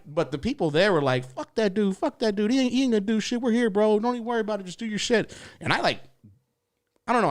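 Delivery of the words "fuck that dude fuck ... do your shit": higher, backing-you-up bro voice; reassuring crowd. Retold or imitated. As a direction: tell him not to worry. Staff reassuring comic.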